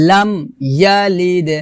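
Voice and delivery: "লাম ইয়ালিদ" with m shut, then bounced d; closed m, separated. Shown as a demonstration. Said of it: "আবার বলি".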